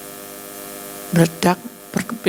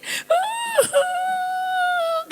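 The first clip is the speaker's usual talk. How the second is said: high shouted wail; acted wailing shout. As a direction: howl it out in grief. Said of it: "dia nangis sendiri".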